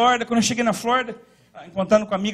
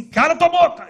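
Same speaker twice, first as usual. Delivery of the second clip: voice of God; 7 semitones higher, 6 dB louder than usual. Retold or imitated. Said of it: "Deus falou assim".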